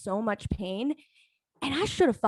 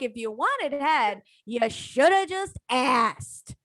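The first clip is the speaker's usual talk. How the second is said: laughing retort; slower than usual. Retold or imitated. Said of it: "And I was like".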